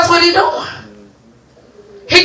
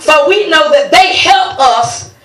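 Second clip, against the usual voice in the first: scripture reading. Acted. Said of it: "He said".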